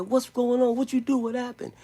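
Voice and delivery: high, urgent imitation of a startled brother; retold alarmed questioning. Brother jumping up at the commotion, retold alarmed questions.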